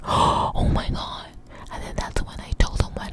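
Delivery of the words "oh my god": slow, drawn-out whisper of shock; awed shock. Retold or imitated. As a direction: whisper it slowly after a gasp, stunned. Reacting to the dragon news.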